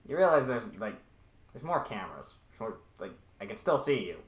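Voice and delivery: annoyed, rising to a shout; exasperated villain. Acted. Villain scolds player over intercom.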